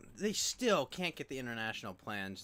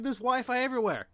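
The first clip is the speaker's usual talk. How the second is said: mocking people; 13 semitones higher, 10 dB louder than usual. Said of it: "And people are like".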